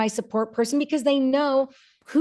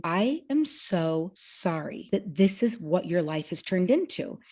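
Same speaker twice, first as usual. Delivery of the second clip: tearful; 3 semitones lower, 5 dB quieter, slower than usual. Retold or imitated. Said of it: "almost in tears going".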